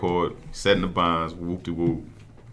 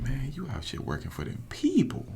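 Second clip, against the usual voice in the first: retold whisper; 8 semitones higher, 6 dB quieter than usual. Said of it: "he whispers in my ear".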